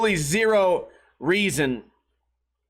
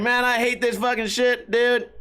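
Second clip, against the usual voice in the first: ranting store clerk; 4 semitones higher than usual. Retold or imitated. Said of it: "would not shut the fuck up about the masks".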